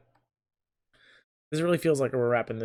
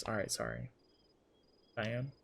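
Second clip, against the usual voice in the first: much lower, grumbled sorry; mock sulky apology; 4 semitones lower, 11 dB quieter than usual. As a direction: drop the voice way down and sulk it.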